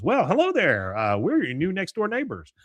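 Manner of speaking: hammed-up greeting to strangers next door; acted cheery greeting.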